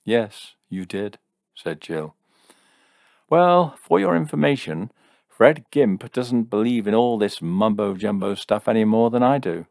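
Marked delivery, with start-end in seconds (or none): 0.0-1.2 calm confirmation. Acted. Jill calmly confirms to furious Jim. 3.3-9.7 loud, high-pitched indignant retort; angry retort. Acted. Furious Jim retorts.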